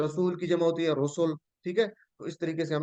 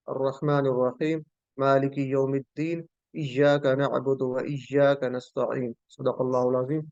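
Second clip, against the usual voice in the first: Quran recitation; 2 semitones lower than usual. Shown as a demonstration. Teacher recites verses of Fatiha to students.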